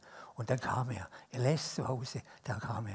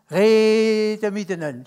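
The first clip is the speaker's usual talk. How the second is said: Swiss German; 5 semitones higher, 9 dB louder, slower than usual. Shown as a demonstration. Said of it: "Das kann ich auf Schweizerdeutsch sagen".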